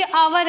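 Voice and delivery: आवर starting on an open vowel, no h; silent-H pronunciation. Shown as a demonstration. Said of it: "pronunciation देख लीजिए".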